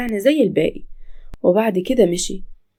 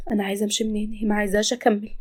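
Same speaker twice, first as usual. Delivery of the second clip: weary, broken voice; 6 dB quieter, faster than usual. Acted. Crying Sara, very quiet.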